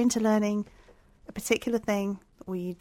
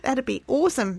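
put-on Australian accent; 3 semitones higher, 3 dB louder than usual. Agreeing to an Australian-accent episode, mock Australian accent. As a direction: fake Aussie twang. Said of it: "episode in Australian accent".

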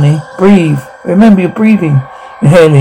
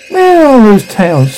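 higher-pitched urgent question; pressing, high-pitched demand; 6 semitones higher than usual. Acted. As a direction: call for supplies in a raised pitch. Acted urgent birth scene, demanding supplies.

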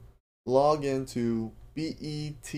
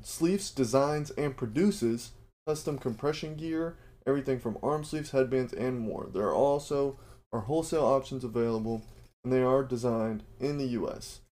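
careful retake. Shown as a demonstration. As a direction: get Sleefs right this time, deliberately. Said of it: "let me try that again".

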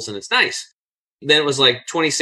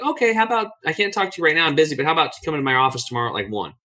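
hurried busy brush-off; 3 semitones higher, faster than usual. Retold or imitated. Retelling the busy manager's reply.

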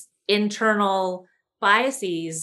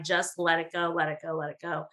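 hushed, softer mother calming her down; soothing hush; 3 semitones lower, 6 dB quieter, faster than usual. Retold or imitated. Mother calming her angry daughter during the show, hushed and soothing. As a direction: quietly coax her to let it go. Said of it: "my mom kept putting her hand on my leg and saying".

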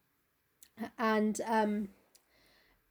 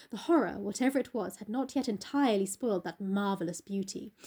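measured storyteller with lifted exclamations; dramatic novel reading. A narrator's reading. Narrator reading the portrait reveal to co-host, dramatic. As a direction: read gothic fiction aloud with relish.

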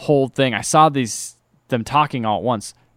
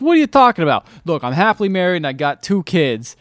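indignant brush-off; 4 semitones higher, 5 dB louder than usual. Retold or imitated. Married guy rebuffs her, acted.

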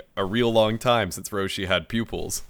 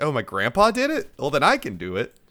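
fired-up Goku; 5 semitones higher than usual. Retold or imitated.

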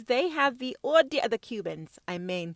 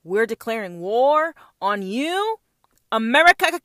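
mock Cuban declaration; 8 dB louder than usual. The Cubans declaring war on America, building to a shout. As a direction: declare war grandly, rising to a yell. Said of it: "said the Cubans".

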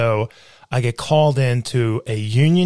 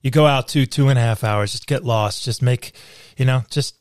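put-on old boss voice; 2 semitones lower than usual. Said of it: "Where he goes".

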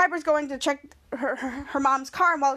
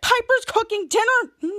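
dismayed reaction; 7 semitones higher, 3 dB louder than usual. Retold or imitated. Husband reacts to the dinner news.

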